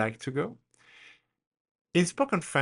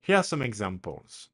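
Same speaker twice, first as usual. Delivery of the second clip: ordinary talk, nothing marked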